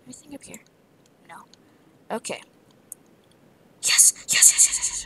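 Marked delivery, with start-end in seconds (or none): 3.8-5.0 loud rapid yeses; excited cheer. Real, not acted. Player cheering loudly after finding loot. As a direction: celebrate the find out loud.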